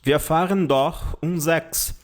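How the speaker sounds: slow, deliberate German model phrase; slow teacher demo; slow example sentence. Shown as a demonstration. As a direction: spell it out slowly for learners. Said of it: "onde a gente diz o seguinte".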